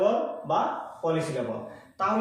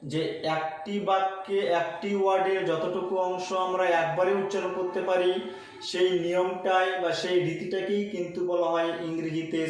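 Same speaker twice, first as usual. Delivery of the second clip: slow restatement; slower than usual. Shown as a demonstration. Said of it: "আমি আবারও বলছি".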